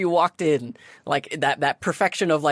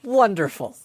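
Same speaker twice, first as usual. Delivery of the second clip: lightly voiced bubbly gatekeeper; perky sphinx greeter; 4 semitones higher than usual. Sphinx letting players pick a riddle, lightly perky. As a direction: offer the choice with light, chirpy encouragement. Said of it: "goes back to a perky self".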